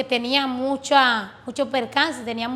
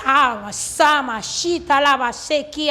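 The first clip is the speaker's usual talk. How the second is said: tongues; slower than usual. Retold or imitated. Praying in tongues during testimony.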